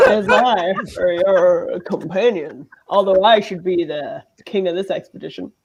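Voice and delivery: lightly voiced rock-and-roll King; a famous singer. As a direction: play the companion as a hint of the King. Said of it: "is my companion just a famous singer?".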